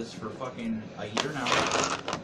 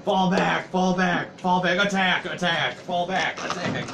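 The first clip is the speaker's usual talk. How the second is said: frantic retreat order; 5 semitones higher, slower than usual. Retold or imitated. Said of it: "it's in the same sentence".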